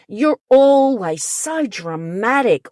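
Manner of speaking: mocking, belittling retort; dismissive jab. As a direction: toss it off like an eye-roll. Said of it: "classic statements that come from the narcissist".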